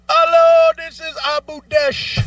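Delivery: high, loud, sing-song greeting; mock phone agent. Second agent picking up the call, high sing-song mock greeting. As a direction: announce yourself like a helpline rep.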